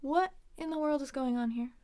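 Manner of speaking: measured, with a pause after "what". Shown as a demonstration. Teacher models an example question, deliberate with a pause.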